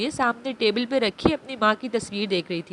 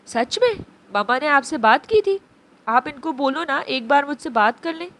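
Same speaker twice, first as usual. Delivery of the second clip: crying innocently. Acted. Motherless Abi begs Abeer to let her mother talk, mildly tearful. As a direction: beg through light tears like a child. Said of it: "रोते हुए आबी इतनी मासूमियत से बोली".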